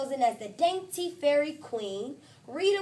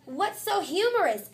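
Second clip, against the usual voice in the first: curious teacher; 7 semitones higher, 5 dB louder than usual. Acted. Teacher asks the class.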